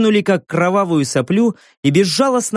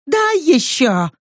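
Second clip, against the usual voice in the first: high, slow, grasping demand; greedy crone; 10 semitones higher, slower than usual. A narrator's reading. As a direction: beg greedily like a starving hag. Crone begging for food. (жадно, старческим голосом)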